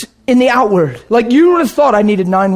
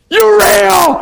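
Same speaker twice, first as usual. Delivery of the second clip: higher shouted cry; retold scream; 7 semitones higher than usual. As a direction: yell it in astonished joy. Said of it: "I'm screaming louder than you can imagine".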